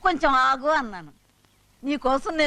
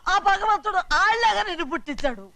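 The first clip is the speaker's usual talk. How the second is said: higher-pitched heated rebuke; angry scolding; 6 semitones higher than usual. Acted. Mother rebuking the son who insulted father, angry. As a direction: scold him with raised pitch.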